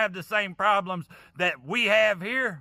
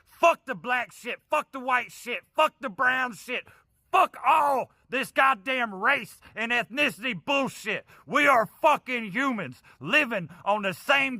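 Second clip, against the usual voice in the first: raised, furious yelling; a higher, heated outburst of rage; angry shout; 4 semitones higher than usual. Real, not acted. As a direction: rail against it with real fury. Furious rant against racial division.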